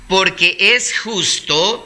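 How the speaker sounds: very slow, deliberate verse opening; measured reading aloud; slow, calm reading. Real, not acted. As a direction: stretch out the scripture phrase. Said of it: "es leerlo despacio, calmado".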